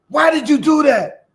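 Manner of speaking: high, loud exasperated yell; high, loud cry of disbelief at a snake. Retold or imitated. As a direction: shout it at the snake like it betrayed you. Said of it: "yelled at the snake".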